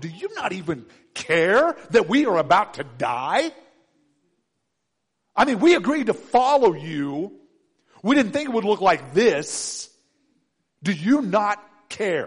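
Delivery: mock blaming, accusatory, indignant, disbelieving tone. Retelling the disciples waking Jesus up: accusatory tone. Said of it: "with that accusatory tone".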